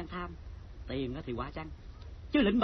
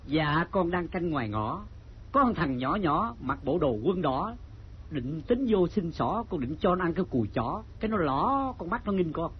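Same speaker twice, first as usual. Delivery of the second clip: deferential report; 3 semitones lower than usual. Acted. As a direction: stretch out each phrase dutifully. Guard reports to the chancellor.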